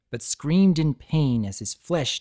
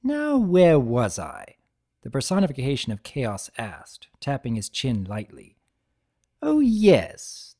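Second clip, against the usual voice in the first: cheery trickster greeting; 2 semitones higher, 3 dB louder than usual. Acted. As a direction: greet him like a long-lost pal, overdone. Discord voiced in story.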